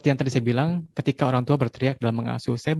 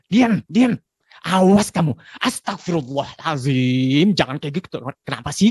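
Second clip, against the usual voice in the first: scolding parent; 4 dB louder than usual. Retold or imitated. Parent scolding child to control.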